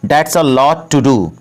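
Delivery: very slow, every word laid out for learners; slow, careful model sentence; slow teaching demo. Shown as a demonstration. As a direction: spell it out slowly for the class. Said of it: "तो English में इसे बोलेंगे".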